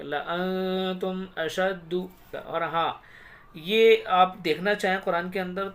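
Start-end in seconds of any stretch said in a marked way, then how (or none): 0.0-2.1 "लअनतुम अशद्दु" slow, short ल and held nasal न; unstretched लाम. Shown as a demonstration. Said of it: "ऐसे पढ़ेंगे". ("लअनतुम अशद्दु" में ल छोटा, बिना खींचे)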